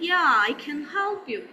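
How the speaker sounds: "help" with a twist of the tongue, said the way native English speakers do; native English style. Shown as a demonstration. Teacher contrasting native English with Pakistani style, native English accent. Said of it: "in the style of the native English speakers".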